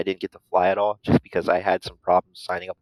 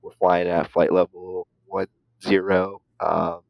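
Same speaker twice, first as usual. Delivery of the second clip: pilot radio voice. Retold or imitated. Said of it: "just kinda whispering, whispering in the microphone".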